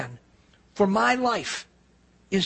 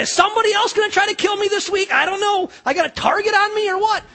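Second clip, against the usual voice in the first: high, loud, incredulous rant; mock exasperation; 10 semitones higher, 3 dB louder than usual. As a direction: rant half-laughing at bad luck. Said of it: "I could have done that".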